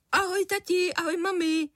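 put-on a happy boy greeting his parents; cheerful boy. A narrator's reading. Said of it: "pozdravil vesele". (vesele, vysokým dětským hlasem)

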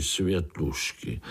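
plain reading voice

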